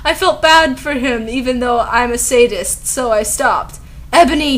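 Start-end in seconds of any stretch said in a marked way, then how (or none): 4.1-4.6 higher, louder villain call; acted yell. A narrator's reading. Voldemort calling to Ebony, in an acted yell. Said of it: "he yelled".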